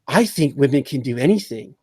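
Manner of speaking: understated mock seductress; a hint of stilted seduction; supposed seductress. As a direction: lightly imitate a would-be seductive film line. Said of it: "supposedly seducing this Asian businessman".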